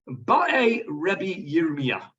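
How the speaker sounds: "Ba'e" drawn out slowly, each syllable clear; Aramaic word said slowly. Shown as a demonstration. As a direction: say "Ba'e Rebbe Yirmiyah" slowly like a teacher. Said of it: "translated here as asks".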